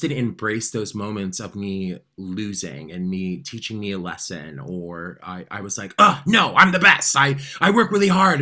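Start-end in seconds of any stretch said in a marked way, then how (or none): 6.0-8.4 high, loud protest; defiant self-assurance. Retold or imitated. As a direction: insist you're the best, brushing off doubt. Retold self-assurance in denial.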